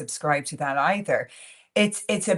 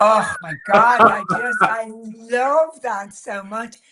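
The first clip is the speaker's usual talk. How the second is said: delighted; 5 semitones higher, 8 dB louder, slower than usual. Real, not acted. Delighted reaction to host's line.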